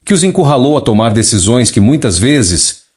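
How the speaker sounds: even synthetic neural TTS voice; a message read by a speech synthesizer. Real, not acted. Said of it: "usando um sintetizador de voz neural para ler a mensagem canalizada original". (voz de sintetizador neural)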